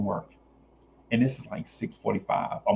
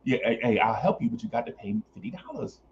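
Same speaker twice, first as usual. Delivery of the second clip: smooth pickup line; 2 semitones lower, 6 dB quieter than usual. Shown as a demonstration. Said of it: "this is how you holler at the lady".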